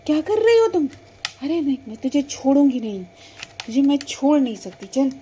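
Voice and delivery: a bully yelling that she won't let go; angry threats. Acted. Bully threatening her friend. (गुस्से में चिल्लाकर धमकाना)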